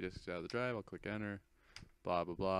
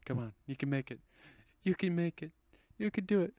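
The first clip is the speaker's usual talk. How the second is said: cheering on; 8 semitones higher, 7 dB louder than usual. Real, not acted. Cheering on progress bar.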